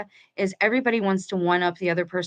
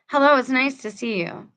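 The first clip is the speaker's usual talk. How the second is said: smiling voice; 5 semitones higher than usual. Real, not acted. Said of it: "I hope you can hear the smile in my voice".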